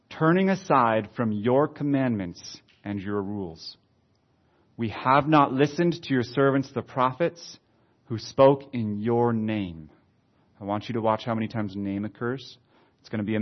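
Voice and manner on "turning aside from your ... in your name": slow, deliberate prayer reading; measured pulpit reading; scripture reading. Acted. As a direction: read the confession out with weight. Reads the prayer aloud.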